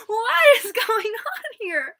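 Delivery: high, drawn-out hollering; slow, high-pitched mock shriek; mock screaming. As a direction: wail it loudly, imitating a drunken screamer. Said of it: "screaming the top of her lungs".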